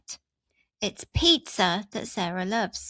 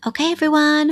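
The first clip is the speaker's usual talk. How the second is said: calling out; 5 semitones higher, 9 dB louder, faster than usual. Real, not acted. Teacher calls out to viewers.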